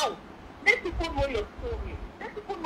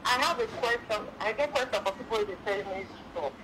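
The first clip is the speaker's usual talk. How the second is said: speaking up; 2 semitones lower than usual. Real, not acted. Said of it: "Speak up, please".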